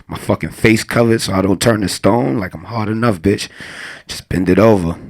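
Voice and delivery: ordinary talk, nothing marked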